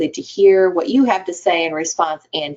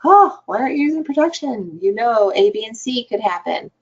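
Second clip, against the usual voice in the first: lecturing; 5 semitones higher than usual. Retold or imitated. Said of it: "jump right in to be like".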